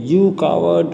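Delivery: high taunting yell; children yelling at the well. A narrator's reading. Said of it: "They yelled".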